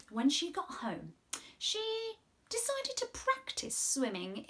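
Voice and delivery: gentle storybook reading voice; reading to children. Acted. Presenter reading a story aloud to the children. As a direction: read it like a storyteller to little ones.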